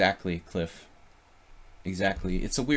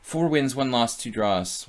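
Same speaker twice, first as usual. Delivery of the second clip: excited announcement; 4 semitones higher, 5 dB louder than usual. Real, not acted. Announcing tournament score to chat.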